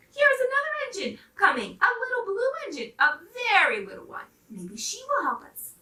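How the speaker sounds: high, loud, eager announcement; excited clown. Acted. Toy clown telling the dolls another engine comes, excited and high. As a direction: spot hope and call it out.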